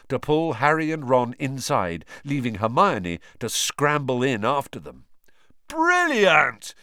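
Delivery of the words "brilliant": loud, high excited yell. A narrator's reading. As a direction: cheer it at full volume. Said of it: "yelled Lee Jordan".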